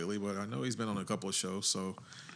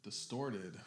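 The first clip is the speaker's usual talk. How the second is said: whispering; 3 semitones lower, 9 dB quieter than usual. Real, not acted. Quiet mic-level aside on air.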